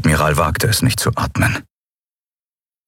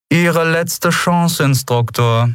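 cold warning; 11 semitones higher, slower than usual. Acted. Commodore's cold final warning.

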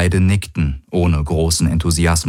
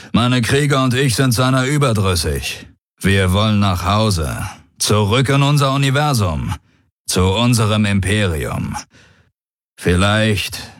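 field commander; 4 semitones higher than usual. Acted.

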